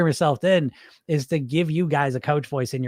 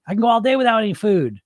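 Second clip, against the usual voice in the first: a lightly higher, mocking echo; mocking quote; 6 semitones higher than usual. Coach echoing Sophia's boast to tease her, mild mockery. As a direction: parrot the claim back with a hint of disbelief. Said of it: "Yeah, great".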